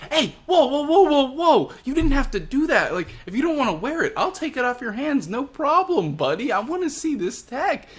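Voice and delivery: a cackling villain pleading to grab the suit; high, giggly mock protest, fast in the middle; laughing Queen. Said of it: "And Queen's like".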